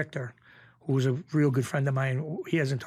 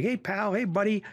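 imitated friendly hello, pitched up; hearty greeting; 6 semitones higher than usual. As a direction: greet everyone like a pal. Acting out Bruno's usual greeting.

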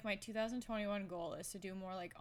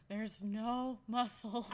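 mock crying whine; 3 dB louder, slower than usual. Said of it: "I feel like I'm like".

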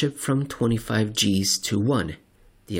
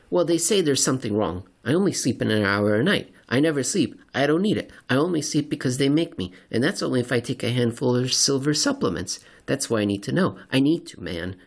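odd seatmate; 3 semitones higher, faster than usual. Acted. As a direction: introduce yourself too eagerly. Seatmate character voiced.

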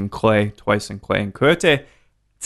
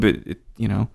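talking mid-sip; words around a sip of mezcal; while sipping a drink; 3 dB quieter than usual. Real, not acted. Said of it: "Sorry, I'm sipping this guy".

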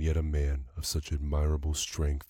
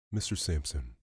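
tenderly. Acted. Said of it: "he said tenderly".

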